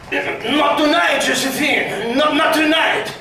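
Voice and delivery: slow, tired brush-off; weary refusal. Acted. Napoleon putting Josephine off, weary and slow. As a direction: turn her down without interest. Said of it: "But it would have been more like".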